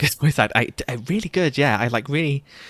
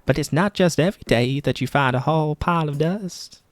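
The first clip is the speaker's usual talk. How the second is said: janitor voice; 7 semitones higher than usual. Acted. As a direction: savour it like a treasure. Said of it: "I think that was his voice".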